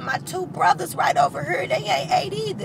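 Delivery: calling out eagerly about the others; excited call. Retold or imitated. Lady tells the givers her brothers are hungry, high and loud. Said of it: "And she said".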